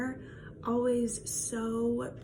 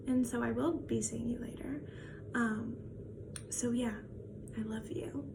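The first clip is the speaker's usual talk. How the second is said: soft whisper; 5 dB quieter than usual. Real, not acted. Ending a farewell message softly.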